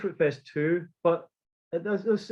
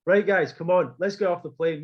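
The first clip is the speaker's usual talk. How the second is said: bossy take-charge; 3 semitones higher, 4 dB louder than usual. Retold or imitated. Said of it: "this is how I started to act towards them".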